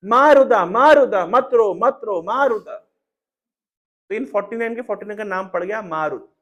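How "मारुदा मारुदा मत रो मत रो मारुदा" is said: louder urgent repeated plea; calling out. Acted. Indra calls loudly to the crying infants. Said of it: "Indra ने बोला".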